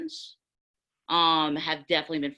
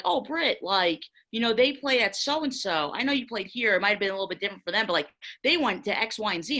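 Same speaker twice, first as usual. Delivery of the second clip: mock patronizing teammate; 4 semitones higher, faster than usual. Teammates talk down to her.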